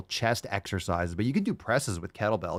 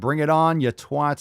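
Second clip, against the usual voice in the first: higher, louder bring-it-on; mock battle cry; 5 semitones higher, 4 dB louder than usual. Host reading a fan's post as a war cry, loud. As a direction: bellow it like a trash-talking fan.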